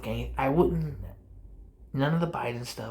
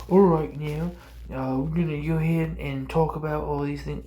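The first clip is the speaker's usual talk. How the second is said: hammed-up English accent, a bit louder; bad English accent; 3 semitones higher, 5 dB louder than usual. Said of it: "I know that was a bad accent".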